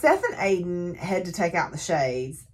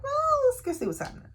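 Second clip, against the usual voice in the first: whispering; faster than usual. Retold or imitated. Characters decide to investigate.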